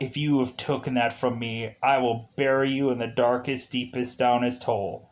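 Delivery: low, understated threat; mock menacing threat. General threatening whoever took it from him, low mock menace. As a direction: threaten under your voice, half in jest. Acting Ross's threat to bury someone.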